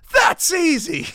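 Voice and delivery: high, loud boast of a cowardly knight; cocky coward. Retold or imitated. Dad acting out the cowardly knight for listeners, high loud bravado. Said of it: "the cowardly guy goes".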